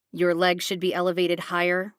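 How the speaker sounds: scolding. Acted. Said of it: "he scolds".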